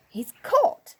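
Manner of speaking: high, loud cry of triumph; joyful. A narrator's reading. Moonface triumphant after locking the door, high and loud. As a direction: crow it with glee. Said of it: "said Moonface joyfully".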